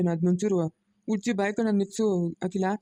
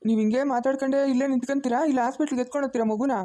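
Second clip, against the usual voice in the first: higher-pitched, urging reproach; fed-up prodding question with raised pitch; impatient scolding; 4 semitones higher than usual. Acted. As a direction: chide them into moving now. Scolding them for standing around talking.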